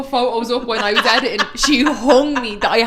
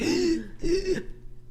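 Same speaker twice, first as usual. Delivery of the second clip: squeaky gasp; 7 semitones higher, 7 dB quieter than usual. Retold or imitated. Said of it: "and he's like".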